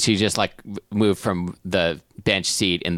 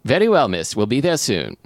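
higher, formal chauffeur in a mock-British accent; amateur British chauffeur accent; driver's put-on accent; 3 semitones higher, 4 dB louder than usual. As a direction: answer as a polite British driver.

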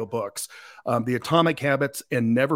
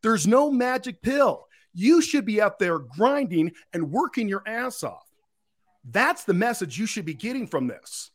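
higher, lightly voiced Gary V lecture; imitating Gary V; 7 semitones higher than usual. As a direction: preach it in a raised voice. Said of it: "He says".

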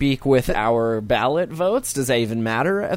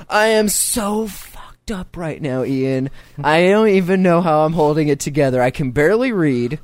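stoned; 3 semitones higher than usual. Real, not acted. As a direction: sound high and barely holding it together. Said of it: "I'm so stoned right now".

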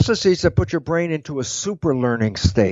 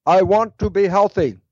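slightly raised, deliberate recorded statement; dictating to a recorder; 3 semitones higher than usual. Acted. Sick person recording a wish, mildly declarative dictation. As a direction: state it clearly for the microphone. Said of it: "Okay, recording".

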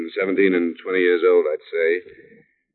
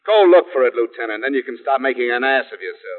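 heated, higher-pitched challenge; angry retort; 4 semitones higher than usual. Acted. Detective telling lieutenant to go look, angry. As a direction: tell him off sharply.

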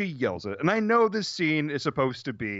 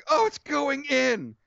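higher, slow, overexcited moan of the line; mock ecstatic; 9 semitones higher, slower than usual. Cohost mocking the actress, hammed-up excited moan. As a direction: ham up her excitement, a touch of ecstasy. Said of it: "The way she is like".

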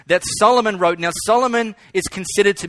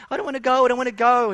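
put-on higher pleading child voice; whining little boy; 5 semitones higher, much faster than usual. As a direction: whine it like a clinging small boy.

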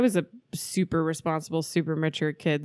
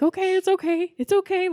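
reassuring; 13 semitones higher than usual. Retold or imitated. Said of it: "also trying to reassure myself".

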